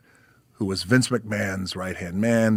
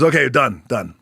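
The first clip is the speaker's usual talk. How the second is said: loud call; 4 semitones higher, 10 dB louder than usual. Retold or imitated. Pat ending the match.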